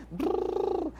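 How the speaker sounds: put-on lip trill for baby. Shown as a demonstration. Parent looking at a baby and making lip trills, gentle. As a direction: buzz lips at the baby. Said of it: "olhando pra esse bebê e fazendo".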